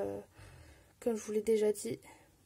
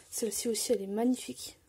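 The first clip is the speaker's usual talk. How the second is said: ordinary delivery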